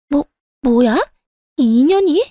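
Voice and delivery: outraged shock. Acted. Insulted sister-in-law explodes.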